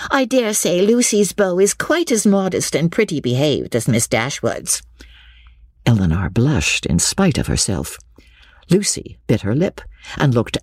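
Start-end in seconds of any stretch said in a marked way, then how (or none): 0.1-4.8 high, squeaky, knowing gossip; hint significantly in a high busybody voice; Miss Steele, insinuating. A narrator's reading. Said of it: "looking significantly around at them".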